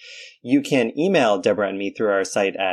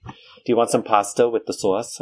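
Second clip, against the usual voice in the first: put-on mom's New York accent. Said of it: "do it right when you imitate the accent".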